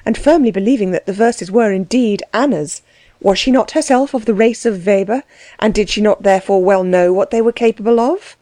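ordinary delivery, nothing marked

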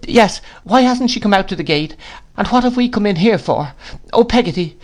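put-on high, pleading boy's voice; distressed child. A narrator's reading. Boy begs his nurse for answers, distressed. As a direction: plead with questions, pitched well up.

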